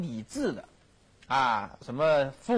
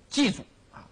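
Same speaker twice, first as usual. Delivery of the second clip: acted defiant ultimatum; 4 semitones higher than usual. Acting emperor's mother's ultimatum.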